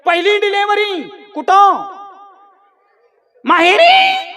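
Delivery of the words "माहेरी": very high, held squeal; high-pitched mock answer. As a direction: sing it out teasingly high. Prompts crowd with mock answer. (उंच, ताणलेला नकली आवाज)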